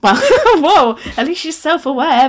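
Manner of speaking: high laughing surprise. Real, not acted. Laughing at own story.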